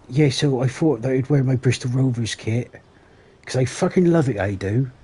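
a hammed-up, badly done Bristol accent; mock Bristol accent. Streamer imitating Anthony's Bristol accent, mock Bristol accent. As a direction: put on a rough Bristol accent, poking fun. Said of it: "Terrible accent. Or impression of the accent".

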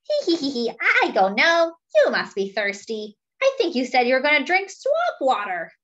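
cheeky monkey. Acted. Monkey teasing his elephant friend, lightly voiced and sly. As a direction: coax him like a sneaky little monkey.

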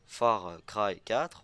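"Far Cry quatre" said very slowly with a heavy French accent; "Far Cry quatre" pronounced French-style, syllable by syllable. Shown as a demonstration. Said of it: "voilà, je l'ai bien dit". (prononcé lentement « Far Cry quatre » avec l'accent français)

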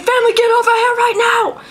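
high, demanding creature call; Krabby calling family. Retold or imitated. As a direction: play a creature summoning its family. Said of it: "It's like".

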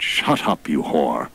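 a touch of a snappy retort; mock-angry god; snapping. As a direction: bite the insult off quickly. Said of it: "quickly turned to her and said".

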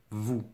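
"Vous" alone and soft, no s sounded; silent final S. Shown as a demonstration. Teacher testing for a final S, isolated soft demonstration. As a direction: say a short, soft "Vous" ending on the vowel. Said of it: "est-ce que tu entends le S final".

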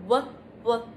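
"W, w," said as a clear repeated lip-rounded w sound; W sound modeling. Shown as a demonstration. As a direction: model the sound "W, w," slowly for kids to copy. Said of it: "Now repeat after me".

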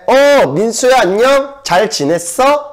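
bright, high, quick hello to a pal; cheery greeting to a friend. Shown as a demonstration. Teacher shows greeting a friend, bright and eager. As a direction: greet a friend with real delight. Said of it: "Khi nào gặp bạn cũng thế".

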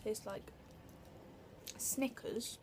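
talking between bites; eating candy while speaking; mouth full, chewing. Real, not acted. Seen 2: Bit bar just before; lips pressed, chewing between words, bar held.

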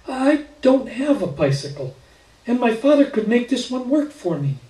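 put-on high, hesitant child voice; a shy girl asking permission; little girl voice. A narrator's reading.

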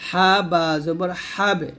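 slowly spelt out, light bounce ending "হাবে"; thin qalqalah. Shown as a demonstration. Teacher spelling out for learners, thin qalqalah. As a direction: draw out the letters, keep the "বে" of হাবে thin. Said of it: "পাতলা".

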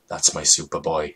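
low, soft grandfatherly line; lightly voiced tender grandpa; uttered tenderly. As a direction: murmur it fondly to the boy. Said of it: "he uttered".

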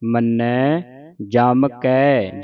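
slow, measured model recitation; scripture recitation demo. Shown as a demonstration. Teacher showing congregation correct Japji Sahib reading, slow recitation. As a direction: recite it slowly for learners to copy. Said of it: "ਸ਼ੁੱਧ ਉਚਾਰਨ ਆਪਾਂ ਸਿੱਖ ਰਹੇ ਹਾਂ".

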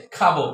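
"খাবো" with a strong kh; aspirated K. Shown as a demonstration. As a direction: burst air on the first sound of "খাবো". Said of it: "খ দিয়ে করতে হবে".

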